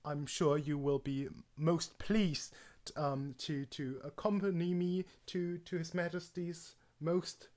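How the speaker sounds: slow, halting posh English formality; posh English accent. Shown as a demonstration. Escorting a guest to His Majesty, posh English accent. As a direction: attempt a stately English accent, groping for words. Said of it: "either very posh or very unposh".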